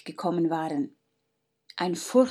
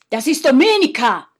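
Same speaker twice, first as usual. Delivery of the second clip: sudden frightened cry, higher and louder; trembling shock; 5 semitones higher, 8 dB louder than usual. Acted. Faustus recognising Domenica beside the count, frightened cry. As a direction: gasp the name out as the fear hits. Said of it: "Plötzlich fängt Faustus an zu zittern".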